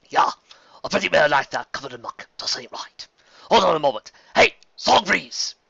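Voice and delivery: lightly voiced jolly barman; friendly, folksy welcome; old bartender voice. Bartender greets the newcomers warmly.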